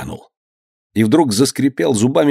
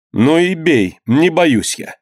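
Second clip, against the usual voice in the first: higher-pitched, defiant challenge; 7 semitones higher, slower than usual. A narrator's reading. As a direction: dare him to hit you. Wife defies violent husband. (с вызовом, высоким голосом)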